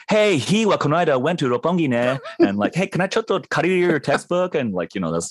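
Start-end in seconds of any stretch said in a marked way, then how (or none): 0.1-2.2 high-pitched English-Japanese hybrid chatter; returnee college kid. Retold or imitated. Mimicking returnee kids from college, pidgin English-Japanese hybrid. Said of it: "pidgin English Japanese hybrid". 2.8-4.6 high-pitched English-Japanese hybrid chatter; returnee college kid. Retold or imitated. Mimicking returnee kids from college, pidgin English-Japanese hybrid. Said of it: "pidgin English Japanese hybrid".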